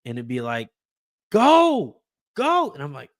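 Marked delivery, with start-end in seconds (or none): 1.3-2.7 high, held-out shout; re-enacted holler, far above the usual pitch; echo of yelling. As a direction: replay your own yell at the game. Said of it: "hear myself yelling at the T V".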